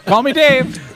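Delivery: high, hammed-up line; mock gruff Dave. Retelling what Dave said, hammed-up. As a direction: deliver it like a tough-guy reveal. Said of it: "He's like".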